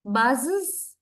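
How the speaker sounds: "Buzzes" in two syllables ending in "iz". Shown as a demonstration. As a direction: say "Buzzes" as "buz-iz". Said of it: "It's like is sound".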